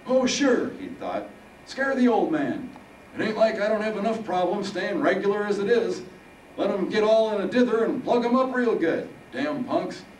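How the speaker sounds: put-on high-pitched, loud old-timer griping; grumbling old Harold. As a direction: play Harold as a high-voiced, irritated old man.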